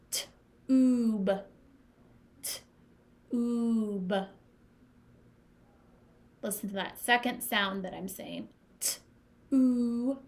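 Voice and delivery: "T-oob" drawn out with a long oo, no y glide; oo sound in tube. Shown as a demonstration. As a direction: stretch the oo in tube. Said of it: "It's making the oo sound like tune".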